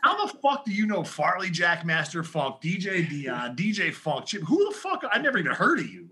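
imitated disbelief; incredulous. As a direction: act out someone who can't believe it. Retold baffled editor challenging unknown DJs.

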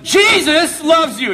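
slow, loud, laughing declaration; mock proclamation. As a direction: announce it, half joking, drawn out. Priest provokes a possessed girl.

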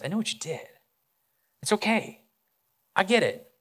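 softly voiced forgiveness, lifting in pitch; gentle reassurance. Jesus to Peter on the shore, gently reassuring. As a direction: reassure a guilty friend gently, with pauses.

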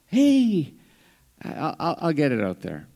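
volunteer eagerly like Peter; preacher voicing Peter speaking up; bold Peter. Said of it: "Peter was just one of those".

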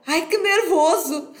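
a touch of put-on nerves; imitated nervousness. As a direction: mimic a nervous listener, drawn out. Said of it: "a pessoa fica tipo".

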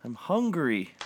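high, loud groaning complaint; lightly groaned protest. A narrator's reading. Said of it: "I groaned".

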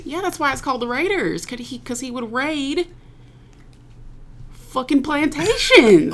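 high Tennessee accent, swelling loud at the end; Southern accent. Shown as a demonstration. Cohost explaining the Raiders name in character, Southern accent. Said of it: "Wait, your voice went".

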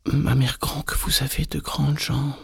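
put-on high, wondering child voice; astonished little girl. A narrator's reading. Red Riding Hood astonished at grandmother's legs, high girl voice.

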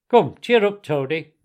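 rally him briskly out of tears; cheering-up, strong voice; hearty encouragement. A narrator's reading. Badger heartening the sobbing Toad.

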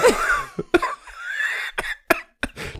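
high, real peal of laughter; burst of laughter. Real, not acted. Remembering the bouncer's story, real laughing.

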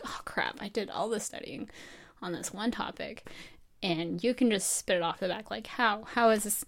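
quietly deflated, like a private thought; inner panic. Retold or imitated. Thinking after classmate's offhand remark, quiet dismayed inner voice. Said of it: "And it's like".

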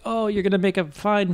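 lightly Irish-sounding dad; hint of an Irish accent on a retold father. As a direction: loose Irish lilt, imitating the dad. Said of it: "He sounds Irish the way you do".

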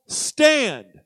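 "stand" set apart and held long; a single weighty "stand"; emphatic "stand". Acted. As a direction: stretch "stand" out with a falling tune. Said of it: "emphasizing the word stand".

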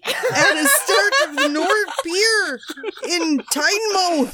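hammed-up English accent hello; mock English accent; put-on English accent. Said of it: "Tell me that's your English accent".

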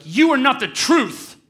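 loud, high, drawn-out mock tantrum yell; imitating screaming preschooler. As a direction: stomp it out like a furious little kid, hammed up. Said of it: "scream at me".

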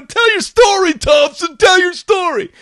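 high, shouted chant to a buddy; mock young guys' high hollering; rowdy soldiers. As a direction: egg him on at a shout. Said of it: "And they're all laughing. They go".

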